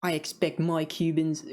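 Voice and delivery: slow, uncertain attempt at a Pennsylvania accent; muddled Pennsylvania accent. Picky out-of-state customer at the deli, muddled Pennsylvania accent. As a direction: lightly put on a vague Pennsylvania accent. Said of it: "I don't know what accent I'm even trying".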